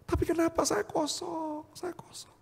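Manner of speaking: high plaintive question sinking into a whisper; retold broken despair. Man asking his mirror why he is empty, broken despair. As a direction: let the lament die away to a whisper.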